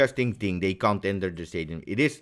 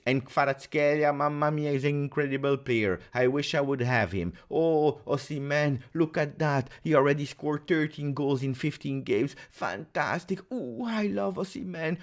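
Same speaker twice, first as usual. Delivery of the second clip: mock rival fan; 4 semitones higher than usual. Mocking fans who love rival players.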